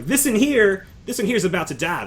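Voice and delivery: high, loud character voice; ma'am's objection. Acted. Ma'am points out the frail loyalist, objecting. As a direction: push it up high to make the point.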